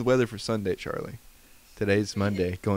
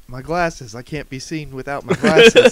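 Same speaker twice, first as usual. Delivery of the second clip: louder, higher, laughing boast; Johnny Bravo impression; 4 semitones higher, 10 dB louder, slower than usual. Retelling a cartoon joke to a friend, a laughing boastful Johnny Bravo voice. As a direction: show off like Johnny Bravo, cracking up. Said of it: "Johnny Bravo's, like, feeling around like".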